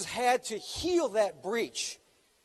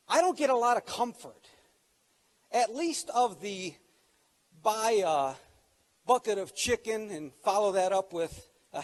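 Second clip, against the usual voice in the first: louder, building preacher delivery; preaching; 4 dB louder than usual. Acted. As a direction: preach it to the congregation. Preaching with rising force.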